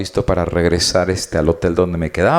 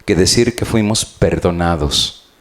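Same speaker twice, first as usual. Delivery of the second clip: preaching. Acted. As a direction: preach it to the pews, pressing each point. Preacher addresses congregation.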